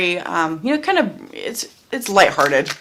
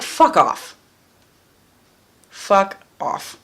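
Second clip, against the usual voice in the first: mock angry retort; 3 dB louder, much slower than usual. Acted quarrel with past person.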